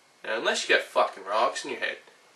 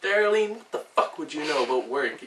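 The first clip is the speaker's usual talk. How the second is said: higher, louder snap at her; angry retort; 4 semitones higher, 3 dB louder than usual. Acted. Snapping back at nagging Darlene, louder and higher. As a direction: fire back at her, offended.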